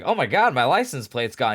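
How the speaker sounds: sudden disbelief at the missing plate; shocked. Retold or imitated. Retelling finding the plate gone, shocked.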